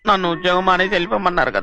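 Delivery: mildly whining, about to cry; tearful complaint. Acted. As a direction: complain as if close to tears. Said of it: "అంటే ఏడుస్తావుట్రా". (ఏడుపు గొంతుతో)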